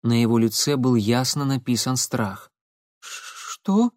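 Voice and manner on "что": squeezed out. Acted. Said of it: "выдавил из себя парень".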